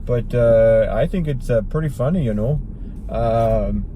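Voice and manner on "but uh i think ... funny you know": sing-songy Canadian accent; exaggerated Canadian accent. Shown as a demonstration. Host raving about Strange Brew, sing-song Canadian accent. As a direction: lilt it like a cartoon Canadian. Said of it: "I sometimes try to do a Canadian accent".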